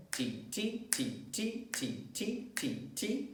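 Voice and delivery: soft, clipped T sounds two per beat; soft eighth-note ticks. Shown as a demonstration. Teacher demonstrating eighth notes to students, soft ticking. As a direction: tick them lightly and evenly. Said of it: "Two sounds in one beat".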